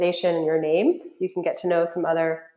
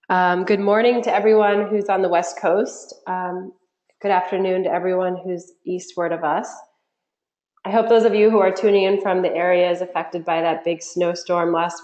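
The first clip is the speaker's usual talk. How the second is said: nasal voice. Real, not acted. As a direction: nasally voice from a cold. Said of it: "for my nasally voice".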